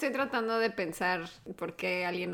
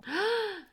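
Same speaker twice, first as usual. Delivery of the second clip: high, sharp gasp of shock; 10 semitones higher, 3 dB quieter than usual. Real, not acted. Listener shocked by the story. (jadeo de asombro)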